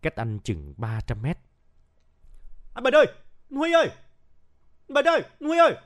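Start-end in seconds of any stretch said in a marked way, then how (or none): 2.7-5.8 loud calling. A narrator's reading. Bằng searches for his comrades from afar, calling loudly. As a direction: call their names across a forest. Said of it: "tiếng gọi to ở phía ngoài cánh rừng".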